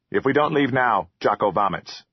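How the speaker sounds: lightly voiced troll, mildly pleading; a small creature begging to go; mild troll threat to vomit. A narrator's reading.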